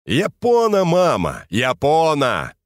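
Япона said carefully, stressed on the middle syllable; correcting «Ёбна» to «Япона», slow; correcting the word. Acted. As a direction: pronounce «Япона» deliberately as a correction. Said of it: "поправил вульгаризм приятеля".

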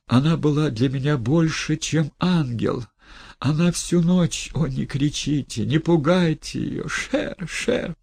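high, pleading in alarm; frightened pleading. Acted. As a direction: beg them not to frighten her. Pleading, frightened old man.

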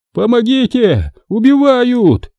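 high, slow terrified shriek; panicked fat man squealing for help; screeching for help. Acted. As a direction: shriek it with all his might. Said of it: "заверещал хозяин".

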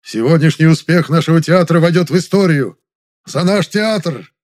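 loud, high celebratory proclamation; rousing toast. A narrator's reading. Director jumps up to toast the premiere, loud and rousing. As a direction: call it out to the whole table.

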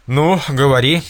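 loud demand; commanding. A narrator's reading. Prince demands the cook talk, loud and commanding. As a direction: press the cook hard.

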